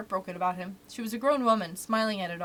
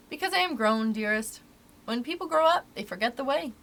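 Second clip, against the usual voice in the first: gently raised storybook mother voice; grown-up mother; 2 semitones higher than usual. Acted. Wendy explains to her child why grown-ups cannot fly, lightly voiced mother.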